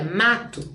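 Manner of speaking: "mato" with clear MA, faint final "to"; stressed first syllable. Shown as a demonstration. Teacher showing students the átona, "mato" with a weak final syllable. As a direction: let the "to" of "mato" nearly vanish. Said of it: "ela fica quase imperceptível".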